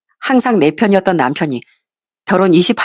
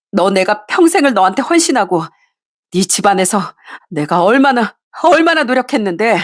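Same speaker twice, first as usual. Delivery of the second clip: trembling anger; 2 semitones higher than usual. Acted. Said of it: "부들부들 떨면서 화를 냈습니다".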